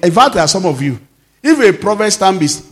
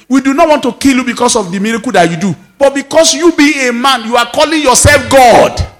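angry accusing crowd; 6 semitones higher than usual. Acted. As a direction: hurl the charge at him. Enemies confront Jesus, acted.

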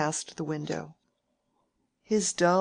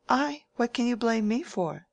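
high, louder wounded protest; indignant surprise; 7 semitones higher, 3 dB louder than usual. A narrator's reading. Rosamond protests to Mary, high and indignant. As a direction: throw the blame back, affronted.

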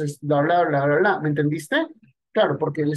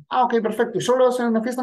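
bright, higher, eager-to-help seller; friendly salesman; 5 semitones higher, faster than usual. Retold or imitated. Friendly clerk asks the customer about the watch, upbeat and higher. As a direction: lift it up like a helpful store clerk.

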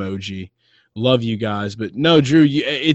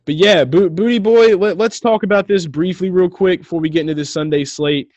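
excited; 6 semitones higher, 4 dB louder than usual. Real, not acted. Excited switch to the caller.

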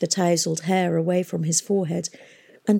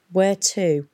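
suspicious. Acted. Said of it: "asked Tom suspiciously".

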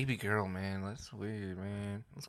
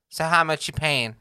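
higher and louder, brash demanding woman; mock gold-digger; 6 semitones higher, 7 dB louder than usual. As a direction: ask for the money up front, pushy and loud. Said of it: "are gonna be like".

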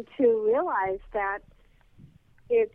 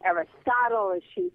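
mock wondering; 8 semitones higher than usual. Inner thought, mocking guess.

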